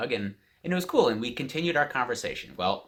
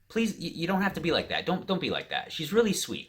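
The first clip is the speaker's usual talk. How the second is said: higher-pitched appeal, retelling it; retold pleading; 8 semitones higher than usual. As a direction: plead with an angry man to ease off. Pleading with angry man to stop.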